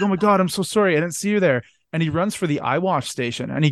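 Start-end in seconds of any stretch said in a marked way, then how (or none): 0.0-1.6 mock sorry, a little higher; lightly hammed-up fake remorse; fake apology. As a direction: sell a phony apology. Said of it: "John Cox is like".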